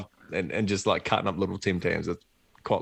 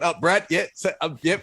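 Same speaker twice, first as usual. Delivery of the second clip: higher, flustered stammering; flustered fumble; 9 semitones higher than usual. Retold or imitated. Caught mid call at the speaker box, flustered and high. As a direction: caught off guard, fumbling for words.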